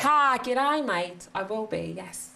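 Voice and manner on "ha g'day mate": cheery New Zealand accent greeting; a bright Kiwi accent, a little louder at first. Shown as a demonstration. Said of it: "So you'll be speaking with a Kiwi accent today?".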